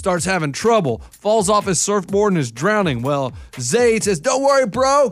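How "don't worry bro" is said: put-on pitched-up teen surfer dude voice. Retelling a teen surfer's rescue of a drowning man, quoting him: surfer dude voice. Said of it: "Did he talk like that, or is that just you?".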